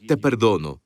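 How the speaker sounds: low, gentle full pardon; tender, sincere forgiveness. Shown as a demonstration. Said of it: "La persona necesita que digas".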